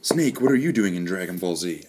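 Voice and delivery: loud. Pretend. Mock character bit.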